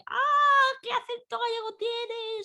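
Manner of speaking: mocking people outside Galicia. Mimicking strangers who laugh at her Galician accent, high and teasing. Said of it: "todo el mundo me dice".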